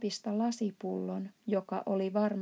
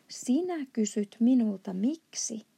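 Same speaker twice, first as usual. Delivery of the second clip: a louder, indignant giant's cry; shouting; 2 semitones higher, 4 dB louder than usual. Acted. Giant shouting at Sohvi while waving the huge bottle, loud and indignant. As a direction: bellow it back at her in disbelief. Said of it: "huusi I K J ja heilutti suunnatonta pulloa".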